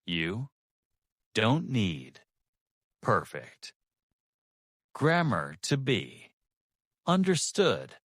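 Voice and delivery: weighty, word by word with long pauses; slow and heavy. Shown as a demonstration. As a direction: let each phrase sink in, silence between. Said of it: "say this slowly. With weight on every word".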